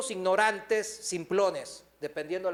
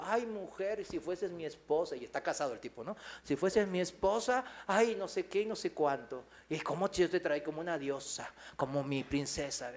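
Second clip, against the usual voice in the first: mock flirting man; 2 semitones lower, 6 dB quieter than usual. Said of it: "hombres andan diciéndolo".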